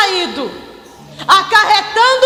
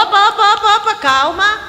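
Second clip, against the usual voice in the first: higher, quick interrupting parent voice; adult calming children; 3 semitones higher than usual. Acted. Parent stopping children who talk too much, calming. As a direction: cut in on an overexcited child. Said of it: "que a gente faz pras crianças".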